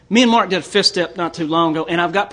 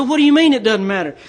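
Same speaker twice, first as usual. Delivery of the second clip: higher, louder, taken aback; indignant disbelief; 6 semitones higher, 4 dB louder than usual. Retold or imitated. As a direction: protest it like your bubble just popped. Retold indignant reply to her.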